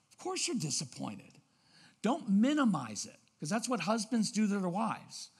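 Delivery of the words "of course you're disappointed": soft validation. Shown as a demonstration. Models validating a child's feelings.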